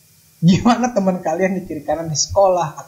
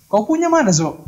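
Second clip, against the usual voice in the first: put-on high, punchy Batak accent; pitched-up mock Batak lilt; 6 semitones higher, 3 dB louder than usual. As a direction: imitate a friend's thick Batak accent. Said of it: "logatnya tuh ... udah Batak banget gitu kan".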